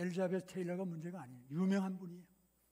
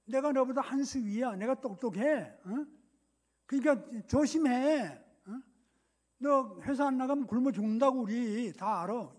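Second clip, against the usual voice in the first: louder, self-important know-it-all; arrogant one-upmanship; 3 semitones higher, 5 dB louder than usual. Acted. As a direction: lord it over the listener, drawing out the endings. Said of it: "사리 대화하는 사람의 입장은 교만". (잘난 체하는 교만한 말투)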